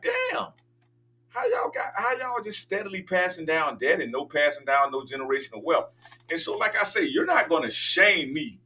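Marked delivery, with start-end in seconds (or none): 0.0-5.9 mock dismayed question. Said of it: "We're like".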